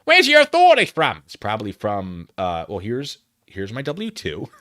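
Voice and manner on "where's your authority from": high, loud mimicry; exaggerated high-pitched mock indignation; mocking the woman's demand. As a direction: parrot it in a squawking falsetto.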